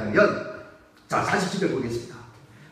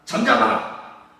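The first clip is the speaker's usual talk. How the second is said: stern hush; 11 semitones lower, slower than usual. Acted. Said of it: "사람들이 꾸짖습니다".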